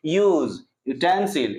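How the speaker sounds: यूज and यूटेंसिल with a lengthened "yoo"; long "yoo". Shown as a demonstration. Teacher repeating examples for students, long "yoo". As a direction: draw out the first sound of यूज and यूटेंसिल. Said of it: "लंबे समय तक यू बोलना है".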